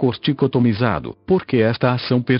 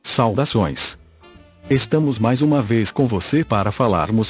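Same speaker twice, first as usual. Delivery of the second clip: even, machine-read text-to-speech narration; synthesized voice. Real, not acted. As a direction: read it like a computer voice. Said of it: "falo através desta voz sintetizada".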